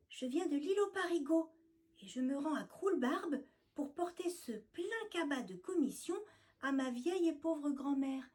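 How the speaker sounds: high, timid mouse voice; nervous little mouse explaining; flustered stammer. Acted. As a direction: stammer it out, scared. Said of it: "explique-t-elle en bafouillant".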